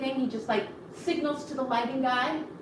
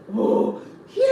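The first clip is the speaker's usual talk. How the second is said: crowd cheer; 7 dB louder than usual. Retold or imitated. Class standing and cheering.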